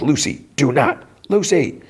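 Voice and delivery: high, strained plea; squeaky plea to stop her; pleading robot voice. Retold or imitated. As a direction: mock-desperate robot.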